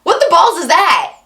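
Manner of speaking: baffled reaction. Retold or imitated. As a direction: blurt it out like you're totally baffled. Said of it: "I was just thinking, like".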